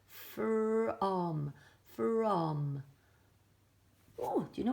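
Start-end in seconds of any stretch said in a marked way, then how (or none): 0.1-2.8 From blended quickly into one word; blending quicker. Shown as a demonstration. Teacher blending the sounds faster for children. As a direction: run the sounds together into From. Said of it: "then I go a bit quicker".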